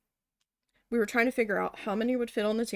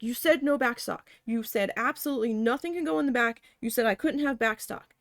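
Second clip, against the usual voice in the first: mildly heated accusation; upset protest; 2 semitones higher than usual. Retold or imitated. Retelling a meltdown at the boss over backstock, mildly upset. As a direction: list each broken promise insistently. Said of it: "like, having a meltdown".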